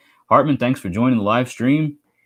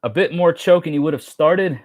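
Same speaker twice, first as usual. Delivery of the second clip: higher lively Aussie accent; Aussie accent try; 5 semitones higher than usual. Shown as a demonstration. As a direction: play it like an Aussie slang line. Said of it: "Unknown Survivor posted one is".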